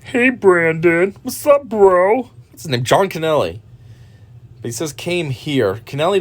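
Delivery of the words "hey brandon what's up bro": drawn-out, higher mock greeting; slow, slimy impression of a creep saying hey; slow mock bro greeting; imitating a sleazy caller. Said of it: "what the hell's his name".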